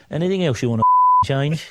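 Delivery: laughing. Retold or imitated. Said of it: "Paddy Daly leant across to me and went".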